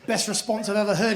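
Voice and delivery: ordinary talk, nothing marked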